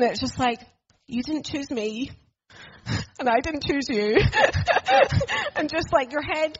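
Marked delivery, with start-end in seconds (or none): 1.1-4.2 put-on half-laughing through the kid's words; laughing quote. Kid left unchosen, laughing. 4.2-5.5 high bursting laugh; burst of laughter. Real, not acted. Laugh after the quote.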